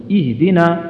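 اهدنا with a clear opening "i"; pure kasra. Shown as a demonstration. Quran teacher correcting learners on اهدنا, pure kasra. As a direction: say اهدنا with a clean "ih", the h distinct. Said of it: "تخلص كسرتها وتبينها".

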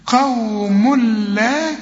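very slow قوم لا, tanween merged into lam, no hum; full merging. Shown as a demonstration. Teacher models full idgham, slow. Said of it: "إدغام كامل بدون غنة".

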